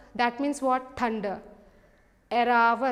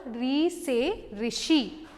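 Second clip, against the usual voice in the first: slow model word; slower than usual. Shown as a demonstration. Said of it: "Just repeat with me".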